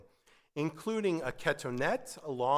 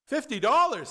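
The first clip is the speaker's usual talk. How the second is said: higher and louder, "Fifty dollars" in disbelief; outraged customer repeating the price; shocked; 9 semitones higher, 8 dB louder than usual. Acted. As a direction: gasp out the price he can't believe.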